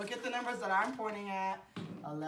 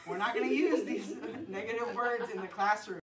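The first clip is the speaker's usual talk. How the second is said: laughing. Real, not acted.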